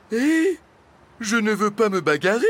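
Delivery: high, loud, quick protest; alarmed backpedaling. A narrator's reading. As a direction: back out in a hurry, voice jumping up. Dragon backing away from a fight. (protestation affolée, rapide et aiguë)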